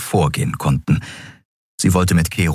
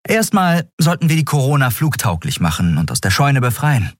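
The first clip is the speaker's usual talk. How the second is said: higher-pitched character voice; lightly acted, eager planner; Endriel, planning; 9 semitones higher than usual. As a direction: lay out the plan, pitched up. Voices Endriel laying out the plan.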